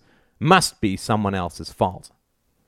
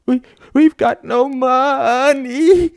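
high, loud, slow wail; bursting into tears; 5 dB louder, much slower than usual. A narrator's reading. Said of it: "Sarah burst into tears".

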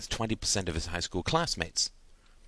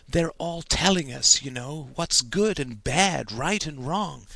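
put-on higher-pitched, earnest boy's voice; a boy pleading his innocent case; lightly voiced eager young boy; 6 semitones higher than usual. A narrator's reading. Stephen pleads with innocent passion.

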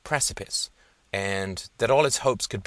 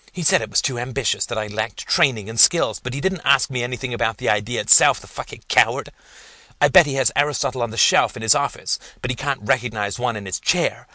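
fast, louder indignant rant; enraged; 3 semitones higher, 4 dB louder, faster than usual. Acted. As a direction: spit out the grievance, fuming. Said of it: "And this enraged him".

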